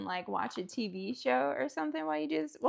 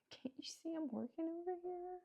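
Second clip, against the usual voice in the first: mock scolding; 5 semitones higher, 12 dB quieter, faster than usual. Scolding the ice maker.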